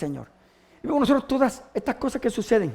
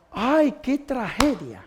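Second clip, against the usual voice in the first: mock lament; 2 semitones higher, much slower than usual. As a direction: lament it slowly, in an acted voice. Acts disciples lamenting the death. (lamento actuado, lento y suave)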